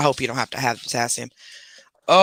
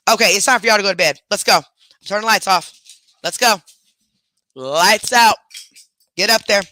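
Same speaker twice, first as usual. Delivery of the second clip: higher, firm herding commands; bedtime orders to pets; 4 semitones higher, 4 dB louder than usual. Real, not acted. To her pets at bedtime, firm higher commands. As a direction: hustle the pets off to bed.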